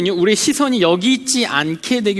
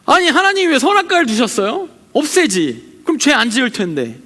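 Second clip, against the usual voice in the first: mock resentful complaint; 3 semitones higher than usual. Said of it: "원망하죠".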